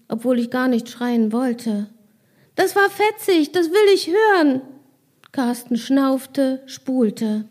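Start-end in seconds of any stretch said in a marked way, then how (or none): 2.5-4.6 excited. Acted. Excited child insists on song.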